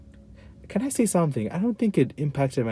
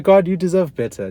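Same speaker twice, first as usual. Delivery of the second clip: pleading outburst; 8 semitones higher, 9 dB louder than usual. Retold or imitated. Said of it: "I'd be like".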